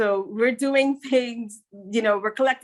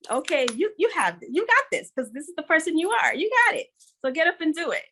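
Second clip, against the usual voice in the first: encouraging pep talk; 6 semitones higher, faster than usual. Retold or imitated. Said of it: "those positive words".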